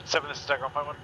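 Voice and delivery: tinny voice over a radio; distant radio transmission; crackly military radio. Real, not acted. Radio call over comms.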